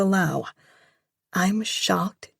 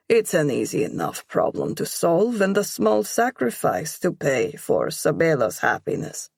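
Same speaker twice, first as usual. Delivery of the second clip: mocking. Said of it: "he adds with a mocking smile".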